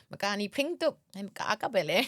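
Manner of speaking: amused, bursting into a laugh at the end. Real, not acted. Speaker joking over a funny word, laughing. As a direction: let the joke tip into giggles.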